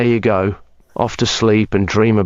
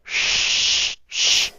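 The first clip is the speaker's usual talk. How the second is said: shushing. Pretend. Hushing her awake again.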